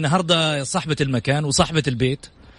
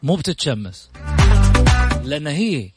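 showy announcer build-up over music; grand TV show host introduction; TV presenter intro; 4 semitones higher than usual. Acted. Host's dramatic guest introduction over music.

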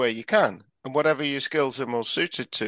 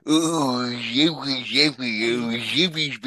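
silly puppet hippo voice; George from Rainbow; slower than usual. Pretend. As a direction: coo it like a timid children's puppet. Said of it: "I can do George and Zippy off Rainbow".

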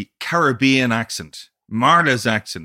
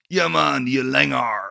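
a reggae singer in Cork; slower than usual. Retold or imitated. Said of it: "I can imagine Bob Marley going".

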